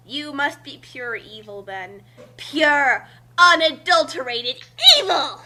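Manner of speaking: mock accusation. Mock accusation, rising to laughing shout.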